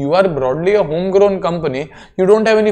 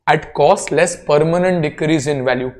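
permanent said with clear weight in the phrase; teacher stressing permanent for the class. Shown as a demonstration. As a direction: lean on the word permanent. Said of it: "Emphasis on the word permanent".

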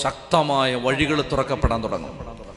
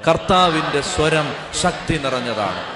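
booming proclamation of the verse; church-filling voice. Shown as a demonstration. Preacher modelling the verse to fill the church, ringing. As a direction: say it so the church rings. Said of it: "ഈ പള്ളി മുഴങ്ങുന്ന ശബ്ദത്തിൽ പറയാമോ?".

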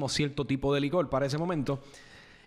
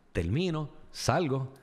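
normal talking voice

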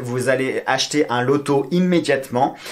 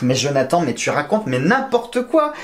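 self-scolding. Real, not acted. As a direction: tell yourself off, rising into disbelief. Scolds himself after miscounting. (exaspéré contre lui-même)

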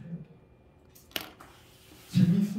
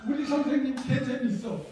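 put-on kid voice; 4 semitones higher than usual. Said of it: "민원을 예방하는 가장 좋은 방법".

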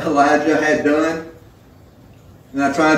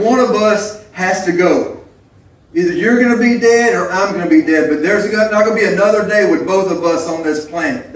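raised-pitch, uncompromising ultimatum; unerbittliches Ultimatum; 3 semitones higher than usual. Acted. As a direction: voice her resolve, pitched up. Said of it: "That was her mindset".

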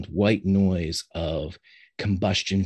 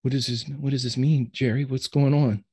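tearful; 5 semitones higher than usual. Acted. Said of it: "Ben has tears welling in his eyes".

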